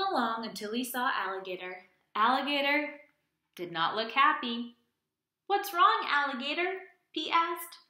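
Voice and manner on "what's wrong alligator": concerned question. Acted. Pete asks with concern.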